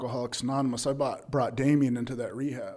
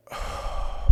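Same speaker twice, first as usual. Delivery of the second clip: long breathy exhale; big relieved sigh; sigh of relief. Retold or imitated. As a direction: let all the air out in relief. Reliving relief on reaching treatment.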